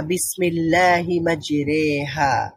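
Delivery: বিসমিল্লাহি মাজরেহা drawn out slowly, মাজরেহা with an e sound; ধীরে, স্পষ্ট কোরআন তেলাওয়াতের ভঙ্গিতে; careful Quranic recitation. Shown as a demonstration. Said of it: "সেটা হচ্ছে".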